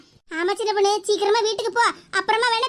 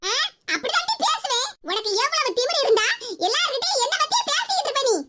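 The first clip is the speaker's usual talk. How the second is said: higher-pitched cross scolding; angry; 3 semitones higher than usual. Acted. Mother-in-law scolding daughter-in-law for gossiping, angry. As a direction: accuse her indignantly, pitch jumping up. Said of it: "எதுக்கு தே இப்படி கோவமா பேசுதிய?".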